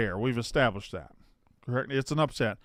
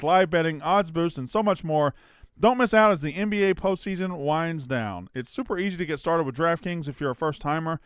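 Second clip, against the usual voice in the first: energetic promo read; 3 semitones higher than usual. Acted. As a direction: sell it like a live podcast ad. Host reads sponsor ad.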